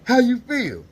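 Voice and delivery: the nurse calling up to ask how he feels. Retold or imitated. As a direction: check on him from across the block. Nurse calls up from bottom floor.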